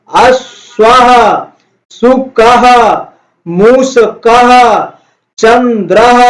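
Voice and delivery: slow, drawn-out word drill, each word stretched; slow recitation for class. Shown as a demonstration. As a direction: say each word slowly for pupils to repeat. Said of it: "इसमें हम साथ साथ बोलते हैं". (धीमा, खिंचा हुआ उच्चारण)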